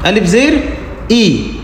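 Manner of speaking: slow spelling, ending on a long falling "ई"; name alif zer slowly, then sound "ई" as ee; "ई" held as a long ee; drawn-out "ई". Shown as a demonstration. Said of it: "आवाज़ नीचे की तरफ दबती है".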